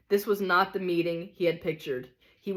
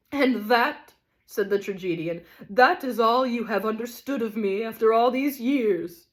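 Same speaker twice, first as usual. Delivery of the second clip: louder, higher reproach; wounded tragedian; 4 semitones higher, 4 dB louder than usual. Acted. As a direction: reproche blessé.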